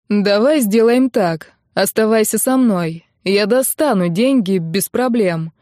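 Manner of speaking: slow, steady, sure of himself; calm and confident. Acted. Young man calmly offers the girl money, slow and assured. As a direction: lay out the offer slowly and calmly. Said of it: "Его голос был спокойным и уверенным".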